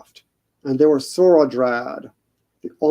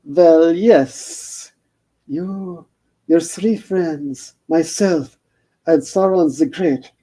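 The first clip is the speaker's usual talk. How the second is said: put-on Shelob's vague accent; 2 semitones higher, much slower than usual. Shelob greets Frodo in a lightly accented voice. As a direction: purr the greeting in a hint of a foreign accent. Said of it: "no idea what the accent was".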